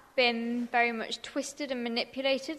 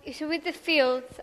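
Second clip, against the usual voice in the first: naturally loud voice; 4 semitones higher, 7 dB louder than usual. Real, not acted. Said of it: "I've got a really loud voice".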